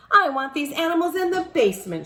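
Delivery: loud, high and fast, mother laying down the law; stern order. A narrator's reading. Mother orders the animals downstairs, loud and fast. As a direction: snap the order out like a fed-up mom. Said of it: "she ordered".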